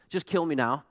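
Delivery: hammed-up angry Jonah; furious Jonah. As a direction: rant like a sulking prophet. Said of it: "Here's what Jonah says".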